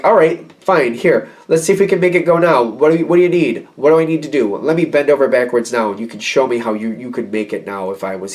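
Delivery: impatient, put-upon offer of help. Acted. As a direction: hurry them along, fed up. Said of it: "there's an impatience here".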